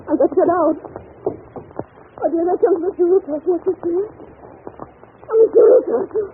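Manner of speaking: rising panic. Acted. Governess trapped in the forbidden wing as her employer comes, panicking. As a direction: fear climbing to terror.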